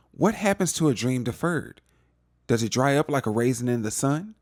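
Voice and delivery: hint of a dramatic poem reading; waxing poetic. Son quoting a poem to the rich man, mock recital. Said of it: "he started trying to wax poetic".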